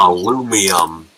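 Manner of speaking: ALUMINUM said with an extra i, "al-oo-mee-um"; British-style aluminium. Shown as a demonstration. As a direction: add an "ee-um" ending to aluminum. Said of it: "At least you don't say".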